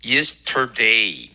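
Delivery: Yesterday slowly, with a full, round "day"; Yesterday as a careful model, "day" drawn out; full diphthong. Shown as a demonstration. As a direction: stretch out each syllable of Yesterday, R curled. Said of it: "双元音发得很饱满".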